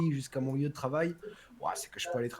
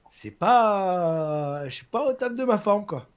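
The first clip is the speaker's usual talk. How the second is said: short of breath while talking; struggling for air between words; shallow breathing; 5 semitones higher, 7 dB louder, slower than usual. Real, not acted. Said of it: "j'ai du mal à respirer".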